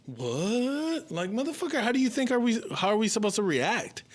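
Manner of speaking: high-pitched, incredulous retort, acted out; indignant disbelief. Answering passengers staring at them after the emergency, indignant disbelief. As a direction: push the voice way up, mock outrage.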